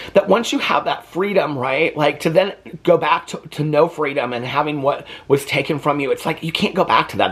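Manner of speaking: high, strained voice near tears; fighting back tears over lost freedom; emotional. Real, not acted. Telling viewers what the movie means to her, near tears. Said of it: "I don't know why I'm getting so emotional".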